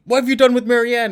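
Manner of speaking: mock panicked demand, pitched high; high, alarmed retold outburst; freaking out. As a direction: act out a character freaking out, high-voiced. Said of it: "the conspiracy theorist starts freaking out".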